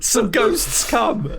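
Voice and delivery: spooky trailer voice. Pretend. Repeats tagline, slow.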